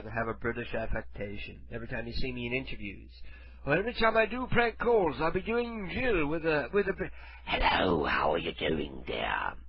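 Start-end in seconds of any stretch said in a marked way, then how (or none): 3.6-7.0 higher, lilting fake British; affected British accent. Joking about future interviews in an affected British accent. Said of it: "I'll be doing Jill with a British accent". 7.5-9.5 very low, drawn-out British voice; British accent. Shown as a demonstration. Prank-call character greeting a dear, in fake British. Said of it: "I'll be doing Jill with a British accent".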